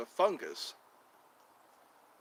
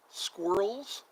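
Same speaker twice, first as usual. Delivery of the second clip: British pronunciation; 4 semitones higher than usual. Shown as a demonstration. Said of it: "in the U K, they call 'em squirrels".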